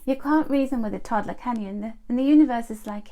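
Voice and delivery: ordinary talk, nothing marked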